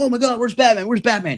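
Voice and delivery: high, far-off voice of a baffled onlooker; mock bewildered crowd. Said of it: "people are like".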